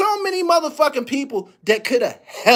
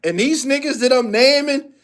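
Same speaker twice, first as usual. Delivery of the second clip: normal talking voice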